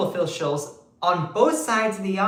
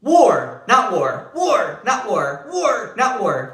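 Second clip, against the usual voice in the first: mock Trump flip-flop; 3 semitones higher, 3 dB louder, slower than usual. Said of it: "Trump is like".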